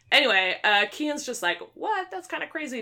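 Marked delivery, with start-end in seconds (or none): 1.7-2.8 high-pitched mock astonishment; retold disbelief. Retelling a character's shock at a loveless marriage, incredulous. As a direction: react as if taken aback, pitched well up.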